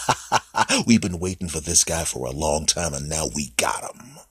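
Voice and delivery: the fat cells cackle over their catch; gloating laugh. Acted. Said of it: "fat cells laughing like".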